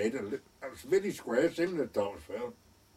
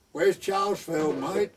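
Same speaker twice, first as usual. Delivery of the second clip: calling out; 7 semitones higher, 6 dB louder than usual. Retold or imitated. Driver calling out to roadside workers.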